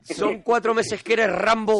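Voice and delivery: 1 mock slow emphasis. Burla enfática, lento.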